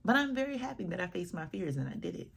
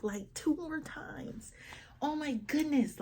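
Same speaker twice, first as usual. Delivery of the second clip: embarrassed whisper; 11 semitones higher, slower than usual. Real, not acted. Embarrassed confession of repeated mistake.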